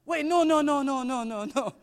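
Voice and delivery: high, rapid-fire mock pleading, easing down; urgent protest. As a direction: imitate a shopkeeper desperate to stop a customer leaving. Shopkeeper acted, stopping departing customer.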